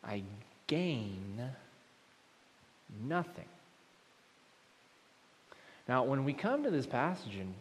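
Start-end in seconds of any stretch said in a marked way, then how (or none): 0.7-3.4 pause, then a slow "gain" and a rising "nothing."; emphasis on the last words. Shown as a demonstration. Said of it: "look at what he says here, last word".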